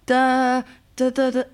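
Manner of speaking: "da, da, da" as a phone ringing; imitated dialling tone. Shown as a demonstration. Friend guessing what noise the phone makes, imitated ringing. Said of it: "What noise does it make?".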